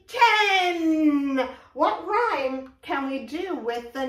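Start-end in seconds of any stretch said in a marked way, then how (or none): 0.1-1.5 excited cheer. Real, not acted. Counting ends in cheer.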